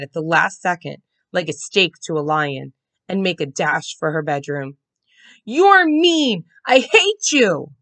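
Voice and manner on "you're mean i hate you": put-on high, loud furious child; angry outburst. A narrator's reading. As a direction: scream it at your sister. Brother going berserk.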